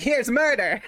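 loud, high gleeful reveal; excited shout. Retold or imitated. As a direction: slam it down like a trump card. Kid's showdown acted out.

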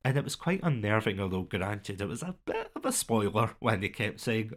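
normal talking voice

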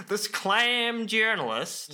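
overdone American accent, "clam" stretched out; terrible American accent. Shown as a demonstration. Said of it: "that's my terrible American accent".

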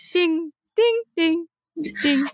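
imitated slow winding dings; ding like a box being wound slowly; slow music-box dings. River winds the box to irritate him, slow dings. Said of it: "super slowly her winding up the box".

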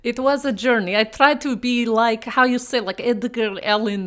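hammed-up mock Russian accent, dropping articles; bad Russian accent. She greets her co-host in a bad Russian accent. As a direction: play a cartoon Russian host badly. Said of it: "speak in bad Russian accents".

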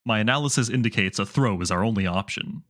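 lightly voiced big metal robot; a hint of a calm mech AI; BT impression.

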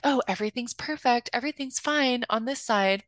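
mock breezy reassurance; a light imitation of forced cheer; fake cheerful facade. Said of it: "having to put on this, outer facade".

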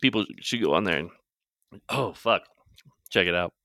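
talking through a mouthful; eating while talking; mouth full. Real, not acted. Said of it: "Sorry, I'm eating some cinnamon".

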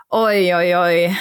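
tiefes, sorgenvolles Oi oi oi; leicht besorgt, etwas tiefer und lauter; besorgtes Oi oi oi. Shown as a demonstration. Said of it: "Oh, ich mach mir jetzt aber Sorgen". (besorgtes Oi oi oi vorgemacht)

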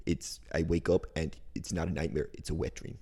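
lightly voiced, stammering Woody Allen; a hint of nervous neurotic Woody; Woody Allen impression. Cohost tells a dream as Woody Allen, mild nervous stammer. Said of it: "Woody Allen".

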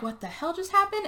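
lightly acted panicked question; freaking out. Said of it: "they're all freaking out".

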